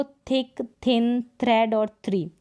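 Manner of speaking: थिक, थिन, थ्रेड, थ्री with an aspirated थ; TH read as थ. Shown as a demonstration. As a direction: model each word from थिक to थ्री with थ at the start. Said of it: "थ ही पढ़ेंगे टीएच को".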